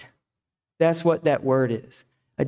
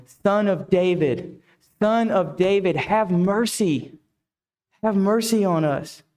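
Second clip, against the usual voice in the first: drawn-out plea, mildly raised; insistent crying out; 3 semitones higher, slower than usual. Acted. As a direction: keep calling slowly for mercy, half-acted. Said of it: "they cried out all the more".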